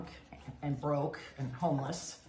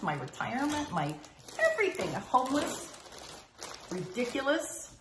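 indignant protest; 6 semitones higher than usual. Retold or imitated. Retold indignant reply to sponsor.

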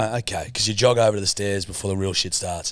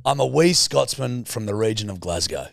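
Scotsman demo. Shown as a demonstration. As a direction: model Scottish accent for copying. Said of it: "give me your best".

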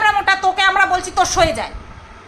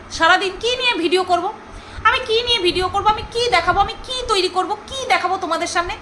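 mock complaint; 3 semitones higher than usual. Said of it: "কি বললো".

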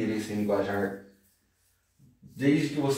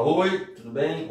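slow, higher-pitched casual hello; friendly greeting; 4 semitones higher, slower than usual. Shown as a demonstration. Brazilian greeting someone on the street, friendly hello. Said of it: "a gente vê alguém na rua que fala".

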